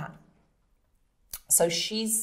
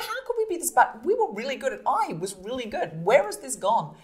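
mock despair; 7 semitones higher, 5 dB louder than usual. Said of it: "And I was thinking".

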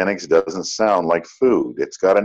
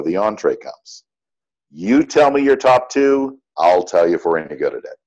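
calm. Retold or imitated. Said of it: "Mary very calmly says".

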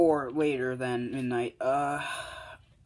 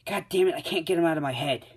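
louder, higher frustrated self-scolding; frustrated outburst; 4 semitones higher, 4 dB louder, faster than usual. Acted. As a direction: snap at yourself, annoyed. Frustrated girl scolds herself.

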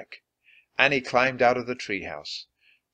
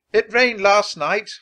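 slow, louder call from another room; 8 semitones higher, 7 dB louder than usual. Acted. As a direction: call out to your son as he leaves. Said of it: "called his Mum".

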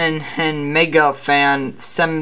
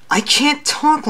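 strained put-on hero voice, pitched up; old Batman voice; 11 semitones higher, slower than usual. Shown as a demonstration. Batman showing the voice he legally can't use, put-on and strained. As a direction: push into the forbidden Batman voice. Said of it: "well, let's say, deep anymore".

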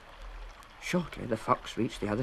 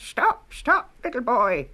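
very high, louder, bleating lamb voice; high bleating call; baaing lamb; 11 semitones higher, 7 dB louder, slower than usual. A narrator's reading. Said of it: "baahed the lamb".

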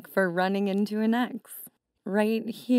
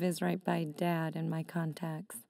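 whispering; 5 semitones lower, 6 dB quieter than usual. Acted. Awkward confession to ex.

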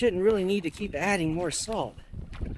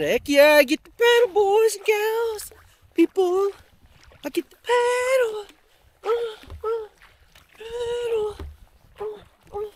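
hammed-up enthusiasm. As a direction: whoop it way up high, stretching the words. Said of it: "So I should have said".

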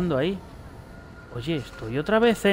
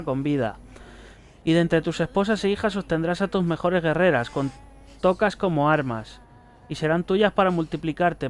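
a prophet's testament read out evenly; solemn note reading. Acted. Player reading a prophet's note aloud to viewers, solemn reading. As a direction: read it like scripture, steady and grave.

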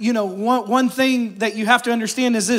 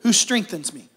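scripture reading. Shown as a demonstration. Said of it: "Philippians four thirteen says this".

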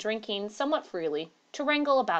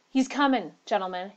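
breathless; 3 dB louder than usual. Acted. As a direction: gasp it out breathless. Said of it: "he said breathlessly".

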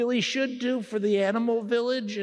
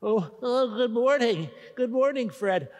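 out of breath; 2 semitones higher than usual. Acted. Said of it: "You're so out of breath".

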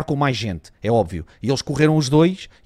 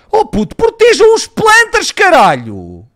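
high, slow drawn-out yell; frustrated yell; 14 semitones higher, 8 dB louder, much slower than usual. Real, not acted. Gamer yelling at his team to protect the planter, high frustrated shout. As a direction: scream the order at them. Yelling at teammates mid-round.

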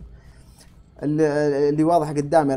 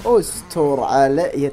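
drawn-out plea; 5 dB louder, much slower than usual. Real, not acted. Begging the game for mercy.

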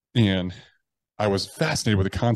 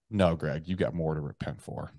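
boss voice; 3 semitones lower, 5 dB quieter than usual. Retold or imitated. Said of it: "my boss voice comes in".

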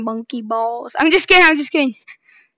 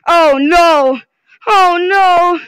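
loud dismay; 3 semitones higher, 5 dB louder, much slower than usual. Real, not acted. Dismay in game.

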